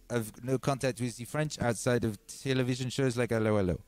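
hammed-up mock French, "ze" for "the"; bad French accent. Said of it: "that's why my accent is so bad".

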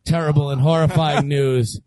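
low, dramatic announcer voice; clickbait video narrator. Acted. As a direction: ham up the doom like clickbait. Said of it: "Ladies and gentlemen ... shocking, terrible".

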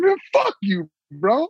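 high squeaky laughing curse; laughing disbelief. Retold or imitated. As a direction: laugh it out in mock outrage. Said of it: "I was like".

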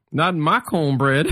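lightly voiced comedian's catchphrase; Adam's catchphrase. Storyteller quotes Adam on stage to the room, catchphrase delivery. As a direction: deliver it as a retold punchline. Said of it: "And then he says".

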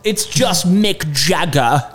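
lightly put-on wide-mouthed British accent, slow; slow, stretched vowels, mock British; a rock singer. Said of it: "I think it's just wide-mouthed".

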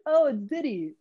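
understated retold 'oh'; mild recognition. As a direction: notice a celebrity without much fuss. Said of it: "she was like".

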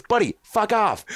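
high, slow, hammed-up threat; a faked in-your-face warning; mock angry Burr. Bill Burr in his face, hammed-up slow threat. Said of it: "Bill gets in my face and goes".

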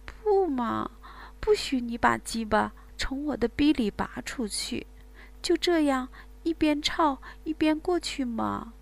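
pouty, half-whispered plea; coaxing woman. Acted. Woman coaxing her lover, pouty and hushed.

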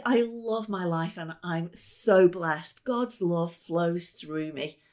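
slow, felt affirmation; slow heartfelt chant of blessing; incantation. Shown as a demonstration. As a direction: say it like you mean every word. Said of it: "things like".

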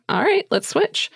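put-on high, light childlike voice, casually agreeing; high child's voice offering the trade; Christ child voice. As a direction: voice the holy child brightly, up high. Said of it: "Christ child's like".

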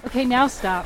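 winded from hiking uphill; short of breath, pushing words out. Real, not acted. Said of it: "I'm running out of breath".

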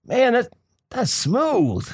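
slow, drawn-out admiring hustler. Retold or imitated. Hustler compliments his bald head, slow admiring drawl. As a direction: savor it like a slick hustler.

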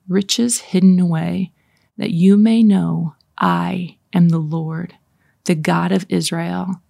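measured, deliberate scripture reading. Shown as a demonstration. Leader reads God's message to listeners as if spoken directly, measured scripture reading. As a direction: read the verse firmly, with pauses between phrases. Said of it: "read it a little bit slower".

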